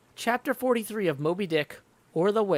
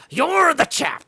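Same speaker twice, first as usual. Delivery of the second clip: loud, higher teasing cry; mocking jeer; 9 semitones higher, 9 dB louder, slower than usual. Sailor jeering at Archie's boast, loud mocking jeer. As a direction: jeer at his sharp ears.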